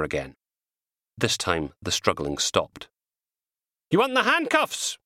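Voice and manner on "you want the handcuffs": threatening. Acted. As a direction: threaten him with the cuffs. Constable threatening the restrained man.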